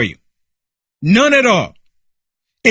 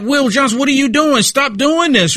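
upset neighbour; 6 semitones higher than usual. Retold or imitated. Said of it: "you're gonna be like".

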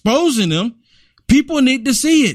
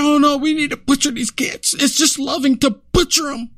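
a higher, sing-song mock of the Democrat witness, sneering; 4 semitones higher than usual. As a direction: sing it out like a sarcastic parody of her. Mocking the opposing speaker.

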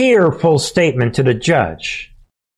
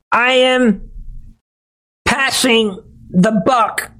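much higher, whiny fake-sobbing voice; mock tearful Jenna Ellis; 9 semitones higher, slower than usual. Host mocking Ellis's tearful plea apology, whiny high mock sob. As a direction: ham up a weepy apology, pitched way up. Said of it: "her voice breaking at times".

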